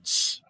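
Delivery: isolated "Ch" sound, almost a T; "Ch" as a bare consonant noise; tch sound. Shown as a demonstration. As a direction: sound out "Ch" alone as tsh. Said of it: "com esse som de quase um T".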